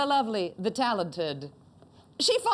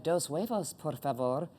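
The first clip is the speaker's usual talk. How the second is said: lightly voiced sultry Latina accent; a hint of a sexy Latina accent; mild mock Latina accent; 5 semitones lower than usual. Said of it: "the Latina accent is very, like".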